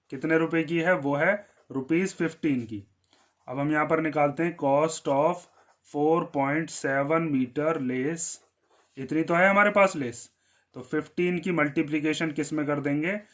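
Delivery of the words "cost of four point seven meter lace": slow dictation. Shown as a demonstration. Teacher dictating while writing.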